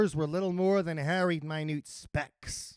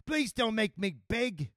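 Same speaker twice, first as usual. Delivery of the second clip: high-pitched, pleading earl; screamed plea; 7 semitones higher than usual. A narrator's reading. Earl begging the lady not to flee, high plea. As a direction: beg her in a high, raised voice. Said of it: "screamed the earl".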